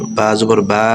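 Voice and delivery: "বা জবর বা" with the "বা" vowel stretched long; wrong drawn-out vowel. Shown as a demonstration. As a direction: drag out "বা" as a deliberate mistake. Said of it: "তাহলে হবে না". ("বা" লম্বা টেনে ভুল উচ্চারণ)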